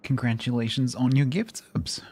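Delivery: hoarse, voice giving out; straining through a gone voice; lost voice. Real, not acted. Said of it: "my voice is gone".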